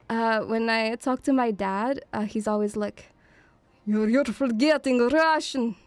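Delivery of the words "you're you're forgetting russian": lightly voiced disappointed father; disappointed dad. Dad telling his daughter off about Russian, imitated disappointment. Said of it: "He's, like, so disappointed in me".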